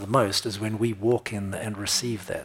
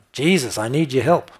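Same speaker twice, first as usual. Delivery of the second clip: raised pleading cry, a little louder; 3 semitones higher, 6 dB louder than usual. Retold or imitated. Preacher voicing the blind man's cry to Jesus, pleading out loud. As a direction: call to Jesus for help. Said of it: "That's what he was crying out".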